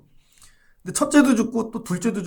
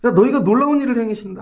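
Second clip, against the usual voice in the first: excited proclamation; 4 semitones higher, 5 dB louder, faster than usual. Acted. Preacher proclaims Jesus' promise.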